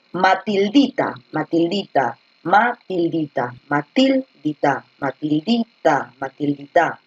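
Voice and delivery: Matildita repeated, slowing down, with the weight on -di-; stress on DI. Shown as a demonstration. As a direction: sound out Matildita and lean on the syllable di. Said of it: "La fuerza de voz está en la di".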